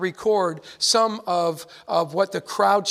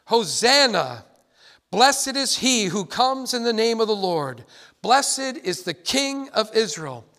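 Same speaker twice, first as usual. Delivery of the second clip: emphatic, measured reading of a shout; crowd's shout, retold. Preacher quotes the crowd greeting Jesus, retold shouting. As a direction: proclaim it as a mild mock shout.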